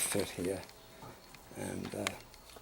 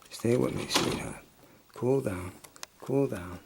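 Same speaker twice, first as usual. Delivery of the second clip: soothing a scared dog; 6 dB louder than usual. Real, not acted. Urging dog to stay.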